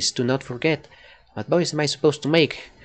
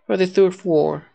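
character voice line; 3 semitones higher, 3 dB louder than usual. Acted. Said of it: "I gotta keep that voice fresh".

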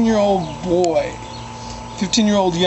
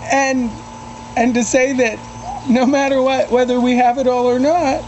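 emotional; 4 semitones higher than usual. Real, not acted. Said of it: "sorry if I'm getting a little emotional".

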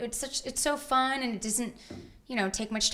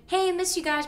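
imitating Graham; 9 semitones higher, 4 dB louder than usual. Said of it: "and he's like".

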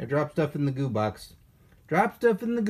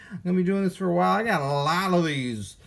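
baseball announcer; faster than usual. Real, not acted. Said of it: "talking like a baseball announcer".

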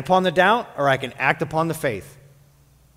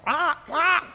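very high squawked eagle cry; hammed-up bird screech; bad eagle shriek; 13 semitones higher than usual. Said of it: "my bad eagle impersonation".

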